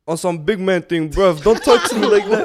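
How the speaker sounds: put-on London street English accent, half laughing; mock English accent. Having a shot after friend's failed try, mock English accent. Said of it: "Speaking of the English accents".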